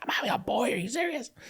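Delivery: very high, soft, squeaky, thrilled squeal of disbelief. Retelling her reaction to the letter's results: imitating a high-pitched voice. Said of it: "her voice goes higher pitched than I've ever heard it".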